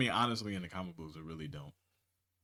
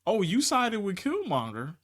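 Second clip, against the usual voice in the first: angry queen; 8 semitones higher, 4 dB louder than usual. Retold or imitated. Retelling the queen's angry rebuke.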